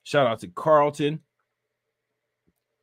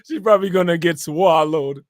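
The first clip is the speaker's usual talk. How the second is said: louder, "swallowed" stretched, laughter bubbling; mimicked drawn-out "swallowed"; 2 semitones higher, 5 dB louder than usual. Streamer repeating his joke, "swallowed" drawn out, laughing. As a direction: draw out "swallowed" long, then crack up. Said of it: "Why was he saying it like that?".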